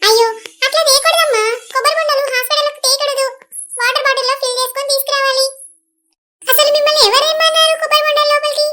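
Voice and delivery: a nurse telling visitors off. Acted. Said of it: "పెద్దమ్మ, ఆమె nurse".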